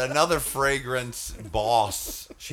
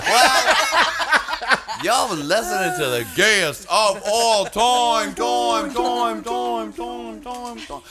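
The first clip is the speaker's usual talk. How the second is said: excited; 10 semitones higher, 3 dB louder than usual. Acted. Host echoing jingle title.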